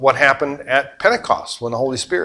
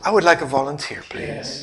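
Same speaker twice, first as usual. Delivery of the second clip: quiet deadpan ask; 7 dB quieter than usual. Retold or imitated. Blondin's quiet punchline ask.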